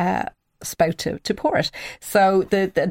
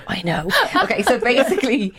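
laughing; 5 semitones higher than usual. Real, not acted. Still laughing after the joke.

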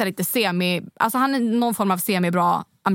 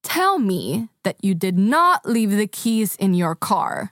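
spaced-out, emphatic retold question; slow, deliberate; much slower than usual. Woman asking about keys left in his car, slow and deliberate. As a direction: draw it out word by word.

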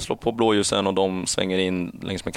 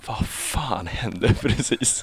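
stunned; 4 dB quieter, much slower than usual. Retold or imitated. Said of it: "tänker jag så här".

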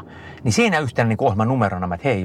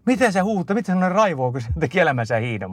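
higher, amazed voicing of baffled friends; puzzled friends; 8 semitones higher than usual. Friends at the finish wondering why he is cursing, amazed. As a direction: ask it as bewildered onlookers would. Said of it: "Kaikki aina ihmetteli".

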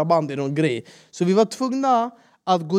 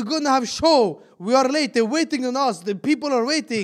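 urgent insisting; 6 semitones higher than usual. Retold or imitated. Retold pitch.

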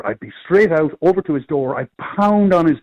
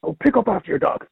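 big booming voice, pitched up; booming yell; 5 semitones higher than usual. Retold or imitated. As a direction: roar it across the green. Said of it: "with my big, booming professional voice".

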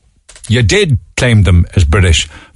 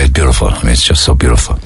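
Trump impression; 8 semitones lower, faster than usual. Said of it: "as Trump would say".

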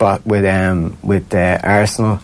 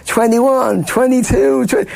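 the party crowd counts his keg stand, cheering high; excited crowd count; slower than usual. Retold or imitated.

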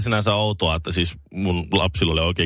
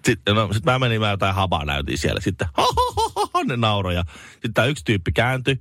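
normal talking voice

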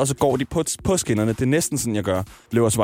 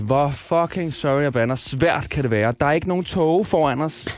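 mildly exasperated, higher-pitched inner rant; exasperated thought; 4 semitones higher than usual. Retold or imitated. Stranded passenger grumbling inwardly, mock exasperation. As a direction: replay the frustration, pitch rising. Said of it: "så sad jeg bare der og tænkte".

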